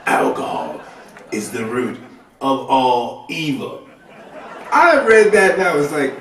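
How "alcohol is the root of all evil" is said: sinister voice. Shown as a demonstration. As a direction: make it sound evil and ominous. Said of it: "the most sinister voice I could think of".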